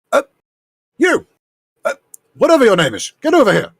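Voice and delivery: high, loud bossy yell across the workshop; hollering for a nameless helper; calling out. Acted. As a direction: summon the apprentice with an impatient shout. Isengard calls an apprentice over.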